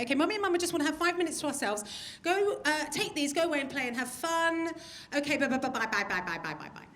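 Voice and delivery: put-on fast, chirpy mum shooing kids away; cheerful mum brushing kids off, fading out; sing-song parent. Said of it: "we say".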